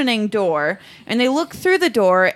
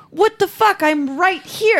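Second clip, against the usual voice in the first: higher-pitched, indignant mock reply; mock exasperation; 5 semitones higher, slower than usual. Voicing Corey answering his friends, mock exasperation. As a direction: protest it, dragging out the ending.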